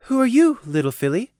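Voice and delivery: kind, polite. Acted. Mare to an unknown little filly, kind and polite. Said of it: "Her words were kind and polite".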